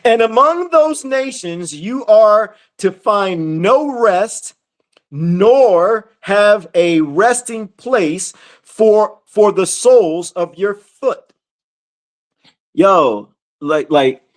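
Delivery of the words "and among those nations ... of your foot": very slow, emphatic verse reading; scripture reading. Acted. Teacher reading the curse to followers, slow emphatic reading. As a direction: weigh each phrase, stretching the key words.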